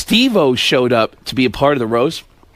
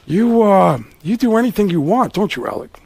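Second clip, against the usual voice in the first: Al Pacino. Acted. Pacino eyeballing Alec, sardonic needling. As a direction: needle him with loaded pauses. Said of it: "Pacino's looking, going".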